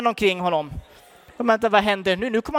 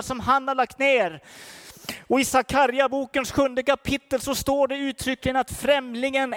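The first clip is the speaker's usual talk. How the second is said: impassioned preacher, raised pitch, ringing out; preaching at full force; 6 semitones higher, 4 dB louder than usual. Real, not acted. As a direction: drive the message home to the congregation, higher than normal speech. (engagerad predikan med höjd röst)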